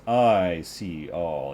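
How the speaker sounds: drawn-out, grave pronouncement; slow solemn priest. Acted. Priest revealing his golden eyes, slow and grave. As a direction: intone it slowly like a seer.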